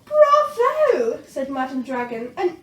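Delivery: booming teacher dragon; Madam Dragon. A narrator's reading. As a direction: cheer them on.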